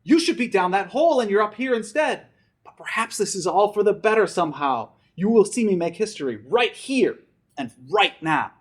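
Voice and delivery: firm and proud, like a hero; lightly voiced grandfather. Grandfather scolds then reassures the boy, determined tone. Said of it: "he said".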